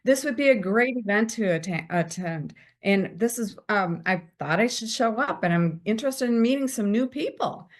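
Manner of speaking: self-assured and upbeat; confident. Shown as a demonstration. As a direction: answer with confidence. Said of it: "Do you see the difference in my voice and my tone?".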